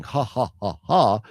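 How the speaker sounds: deliberate spoken ha-ha laugh; mock laugh. Mock laugh while reading blurb.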